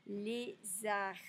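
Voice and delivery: "lézard" in two clear syllables, no final d; silent D. Shown as a demonstration. Teacher showing the silent letter, "lézard" without the d. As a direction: say "lézard" ending on the r, d left silent. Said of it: "on ne prononce pas le D".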